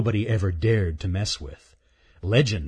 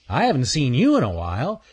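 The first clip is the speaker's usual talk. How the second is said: lightly voiced chatty chipmunk, high louder hello; a cocky chipmunk's loud greeting; teasing chipmunk; 5 semitones higher, 4 dB louder, faster than usual. Earl greets the squirrel he teases, cocky chipmunk voice.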